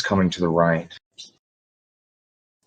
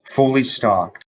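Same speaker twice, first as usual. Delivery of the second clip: game master narration; 3 semitones higher than usual. Acted. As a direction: paint the room for the players. GM scene narration.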